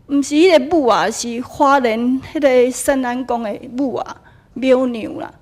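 loud, firm correction; insistent correction. Retold or imitated. Temple master correcting the speaker, loud and firm. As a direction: set her straight emphatically.

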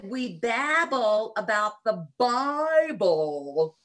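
put-on Southern accent, Bible said slow like babble; slow Southern accent retold. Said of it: "losing my Southern accent".

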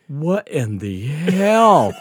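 drawn-out, stretched "what in the hell"; retold slow-dawning disbelief; stunned disbelief. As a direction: slowly stretch it out in mock astonishment. Retelling friend's stunned reaction.

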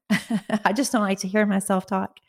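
laughing, leaning on "hear"; amused self-correction with a laugh. Real, not acted. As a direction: chuckle through it, stressing "hear". Laughing restatement, stress on hear.

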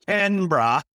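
Canberra as CAN-bruh, two syllables; local pronunciation. Shown as a demonstration. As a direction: say Canberra the Australian way, squeezed to "CAN-bra". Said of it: "as they pronounce it".

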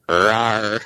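half-hearted spoken growl; Hulk roar. Retold or imitated. Fan flexes for the actor, half-hearted Hulk roar. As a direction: give a small, mock monster roar. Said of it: "little Hulk Hogan flex".

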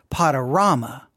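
"Potorama" said "Pod-uh-RAH-muh", falling; broad ah in "Potorama"; second option. Shown as a demonstration. Host asks listeners how to say it, falling. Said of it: "how do you say it".

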